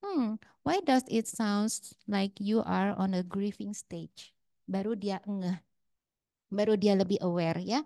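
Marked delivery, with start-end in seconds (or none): 0.0-4.3 gentle counselor question. Retold or imitated. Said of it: "waktu saya bilang".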